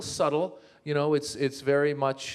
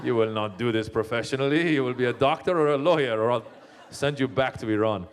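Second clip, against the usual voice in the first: put-on dismissive parent in an Iranian accent; Iranian parents' accent. Parents in the car after the play, dismissive Iranian accent. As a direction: imitate stern Persian parents laying down the law. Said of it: "they'd be like".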